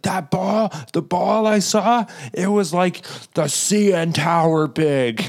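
put-on kid voice. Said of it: "an eight-year-old right now where he's like".

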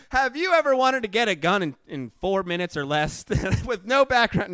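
hammed-up radio ad pitch; ad announcer. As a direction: sell it like a cheesy gun club ad. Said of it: "the speaker's S N L audition".

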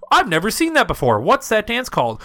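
high, breathy pop star voice; pop singer impression. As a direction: mimic a clueless pop diva. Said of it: "a singer's like".

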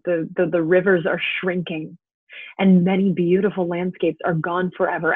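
stage speech building from measured to impassioned; Astrov's monologue. Acted. Astrov lamenting Russia's destroyed forests, building stage monologue. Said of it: "This is Astrov speaking in the middle of Act One".

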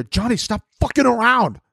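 high-pitched scolding of Johnny; mock scolding. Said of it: "we saw it early".

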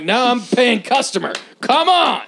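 high, laughing whiny plea; mock pleading customer. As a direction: beg in a silly high voice.

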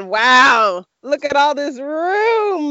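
loud wow then slow, awed; pleased with all the room; delighted wow. Retold or imitated. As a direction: marvel at the empty bed. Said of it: "I said".

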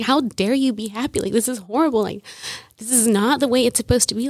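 irritated, mad. Retold or imitated. Daughter mad at her happy mother, mildly indignant retelling. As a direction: replay being mad at mom, without shouting. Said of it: "even more irritated and more mad at her".

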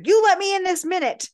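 high, loud, fast imperious command; imperious demand. Retold or imitated. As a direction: bang on the door and demand entry. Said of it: "it's the Dowager".

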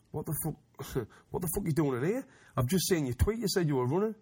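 high, laughing disbelief as his mate; mock him through laughter; amused mate catching him out. Mate mocks him, caught out.

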